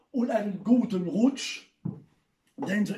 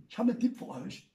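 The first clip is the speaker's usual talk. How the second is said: fast and softer repeat; quick aside; 5 dB quieter, faster than usual. Shown as a demonstration. Comedian repeating his tip to the audience, quick and softer. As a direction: rattle it off under your breath. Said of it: "repeated faster".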